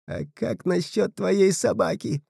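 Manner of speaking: slow, hushed, otherworldly voice; sly and cold, savour each word; eerie spirit boy. A narrator's reading. Spirit asks for dog.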